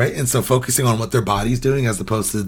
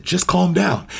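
sharp, higher dismissive brush-off; dismissive judgy tone; 8 semitones higher, slower than usual. Shown as a demonstration. Parent brushing off an upset child, dismissive. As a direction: say it like their upset doesn't matter. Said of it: "even you heard my voice".

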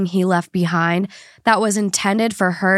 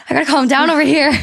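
fast, breathless, blocked nose; talking through a stuffed nose, gasping; huffing and puffing; 4 semitones higher, 4 dB louder, faster than usual. Real, not acted. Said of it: "I can't breathe out of my nose and I'm, like, struggling to talk".

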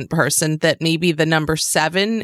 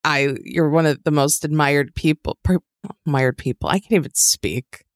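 hungover; 4 semitones lower than usual. Real, not acted. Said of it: "I'm hungover right now".

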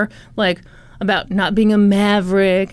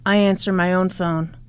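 lower, softer tough-guy voice; a hint of a gruff tough guy; low gruff Ken voice; 5 semitones lower, 4 dB quieter than usual. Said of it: "And Ken said".

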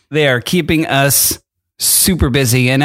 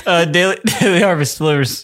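laughing. Real, not acted. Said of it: "I've never heard you laugh like that".

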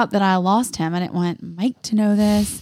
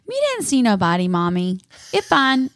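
put-on toddler voice; 2 semitones higher than usual. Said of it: "he's like".

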